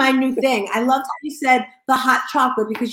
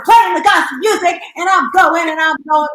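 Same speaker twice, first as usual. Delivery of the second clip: louder, higher, revved-up telling; fired-up reenactment; 5 semitones higher, 6 dB louder than usual. Retold or imitated. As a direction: act out getting carried away by the music. Acts out getting into gospel music.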